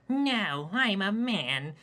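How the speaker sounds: a feeble man insisting he is a man; effeminate unimposing voice. Acted. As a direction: plead weakly, trying to sound manly. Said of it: "in his effeminate, completely unimposing voice".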